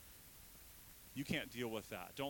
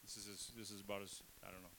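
emotional; 4 semitones lower, 9 dB quieter, faster than usual. Real, not acted. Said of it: "I'm getting emotional up here".

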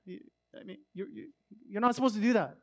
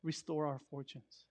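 quiet plea; 6 semitones lower, 8 dB quieter than usual. Retold or imitated. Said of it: "all of a sudden he says".

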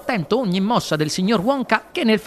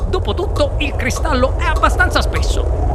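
high, blithe reasoning; happy, high-pitched nonchalance; supremely happy; 9 semitones higher, 3 dB louder than usual. A narrator's reading. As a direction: muse cheerfully, voice lifted. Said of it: "felice come non mai".

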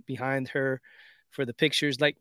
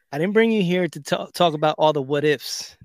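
raised, emphatic fatherly scolding; dad's retold lecture; 3 semitones higher, 4 dB louder than usual. Dad cuts off his daughter's what ifs, retold lecture. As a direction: lay down the law, mock exasperated.

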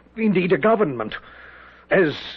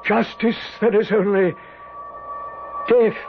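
trance-like pronouncement; 4 semitones higher than usual. Acted. General entranced, voicing the spirit.

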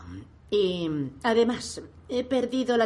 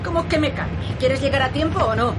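high, loud indignant snap; defensive shouting; angry retort; 7 semitones higher, 5 dB louder than usual. Acted. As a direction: yell back at her passenger. Road rage argument in car.

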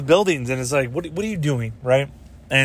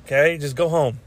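lecturing retort; 4 semitones higher than usual. Retold or imitated. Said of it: "I'm like".

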